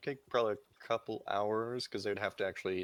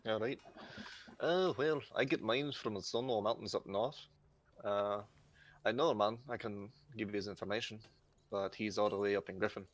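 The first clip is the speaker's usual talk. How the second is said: put-on Irish accent. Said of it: "sorry for my Irish accent".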